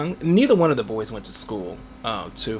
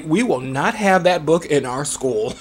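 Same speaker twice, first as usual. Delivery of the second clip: laughing librarian quote; 2 semitones higher, 4 dB louder than usual. Retold or imitated. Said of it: "Librarians will say".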